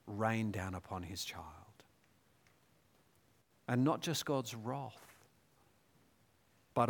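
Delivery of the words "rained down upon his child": a reverent near-silent whisper; hushed whisper. Acted. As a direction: breathe it out in a whisper. Hushed climax of the crucifixion.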